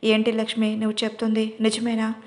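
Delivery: plain reading voice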